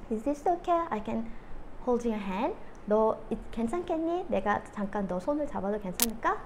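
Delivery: put-on softly asking the child's permission. Mom calmly asking her upset daughter's permission. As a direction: gently ask to hold her hand. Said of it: "이렇게 얘기를 했어요".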